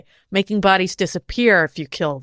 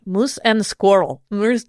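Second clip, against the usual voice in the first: put-on Russian accent; slower than usual. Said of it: "bring my Russian accent back".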